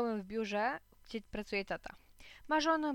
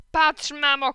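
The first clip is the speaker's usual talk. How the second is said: put-on high, loud child's call to mom; excited shout; 6 semitones higher, 12 dB louder, slower than usual. A narrator's reading. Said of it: "krzyknąłem".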